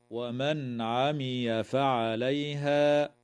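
slow chanted verse; Quran recitation. Shown as a demonstration.

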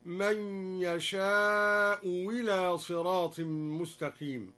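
slow recitation, "يشاء إلى" said yasha'u wila; hamza turned waw. Shown as a demonstration. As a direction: start "إلى" with a w after "يشاء". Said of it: "أو أبدلها واوا". (بإبدال همزة "إلى" واوا بعد "يشاء")

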